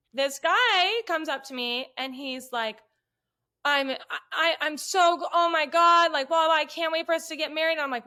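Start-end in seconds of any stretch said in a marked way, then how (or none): 3.6-7.7 mildly gushing, stammering imitation of a fan. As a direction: stumble in excitedly, then rush it out. Voices the smitten fan gushing.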